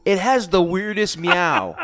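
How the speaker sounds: laughing through the words; giggling out the sentence. Real, not acted. Laughing while describing.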